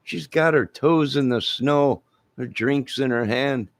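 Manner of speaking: comic gawking neighbors; mock amazed neighbor. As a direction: gasp at Chihuahua Dawson in the snow. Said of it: "Your neighbors would have been".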